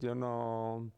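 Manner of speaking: lightly imitated German-accented queen; a touch of German accent. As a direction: mimic her German accent. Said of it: "she had a German accent".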